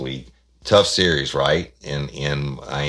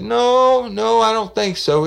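a raised, louder voice for the man calling; brash caller; 8 dB louder, slower than usual. Retold or imitated. Prank caller demanding to know where Johnson is, loud. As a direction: push it out like a pushy caller.

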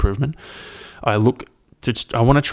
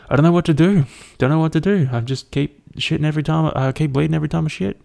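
higher, mock-distressed complaint; oversharing mate; 6 semitones higher than usual. Mate confessing ailments on speakerphone, mock-distressed higher voice. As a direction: play a mate griping at a raised pitch.

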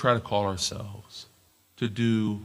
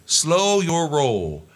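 very slow, loud, high drawn-out warning; friend's catchphrase; 5 semitones higher, 5 dB louder, much slower than usual. Retold or imitated. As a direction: stretch it out to calm him down. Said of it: "which is his way of saying".

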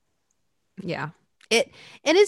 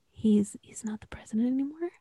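whispered with relish; gleeful whisper; 5 dB quieter than usual. Real, not acted. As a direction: whisper the good news. Gleeful secret about Trump.

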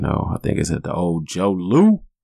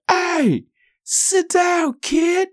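much higher, nasal-free cartoonish white-dude voice telling a kid off; mock white guy; much slower than usual. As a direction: lampoon an annoyed white man. Fat white dude yells at kid.

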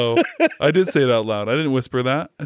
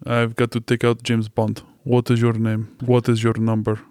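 put-on Russian accent. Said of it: "his Russian accents".

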